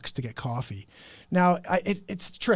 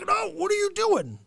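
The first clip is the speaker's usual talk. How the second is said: much higher shocked yelp; 3 dB louder than usual. Retold or imitated. Host reacting to caller swearing, high shock. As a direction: cry out in shock. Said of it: "I'm like".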